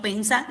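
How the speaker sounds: pensá with the weight on its final A; stress on final syllable. Shown as a demonstration. Teacher explaining the accent mark, pensá stressed on final A. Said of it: "porque es aguda y termina en vocal".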